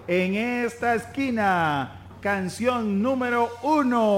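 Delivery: slow, drawn-out ring announcer call. Acted. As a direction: boom it out like a boxing ring MC. Announcing the song battle.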